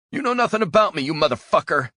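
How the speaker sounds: high, loud enraged yell; furious scream. Acted. Prisoner struggling against ropes screams at captor, enraged yell. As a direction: hurl the insult with all your rage.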